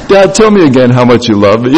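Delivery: dad voicing his daughter begging sweetly; pleading daughter. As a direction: coax like a daughter after money. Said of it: "daughter's sweet plea".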